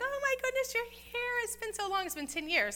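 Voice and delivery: very high, excited mock townsfolk; gushing welcome. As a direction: squeal a delighted greeting, then ease down. Townspeople greet Naomi after ten years.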